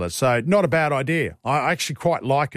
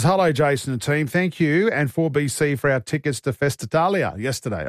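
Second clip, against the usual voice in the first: put-on Italian accent. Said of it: "I've done my crappy Italian accent".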